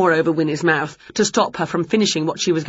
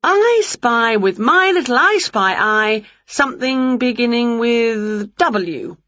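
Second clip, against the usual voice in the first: lightly voiced witch, slow and teasing; a hint of a playful witch drawing out her riddle; Winnie's voice; 5 semitones higher, slower than usual. Winnie teasing Wilbur with a slow, playful riddle.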